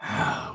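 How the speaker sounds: annoyed zebra sigh. Acted. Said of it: "annoyed anthropomorphic zebra".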